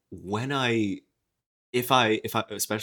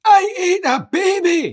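very high, loud, drawn-out Scottish yell; Mike Myers Scottish; 10 dB louder, much slower than usual. Acted. Following talk of a comedian's Scottish voice, hammed-up Scottish yell. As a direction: bellow a hammed-up Scottish accent, laughing. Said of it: "familiar with Mike Myers doing it".

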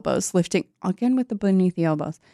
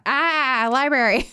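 dumb high mock voice; 7 semitones higher, slower than usual. Mocking Trish's dim realization.

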